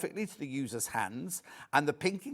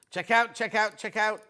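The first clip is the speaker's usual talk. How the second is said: repetitive robot-like call; 4 semitones higher, 4 dB louder than usual. Real, not acted. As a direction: chant it like a robot. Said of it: "I'm sounding like a robot".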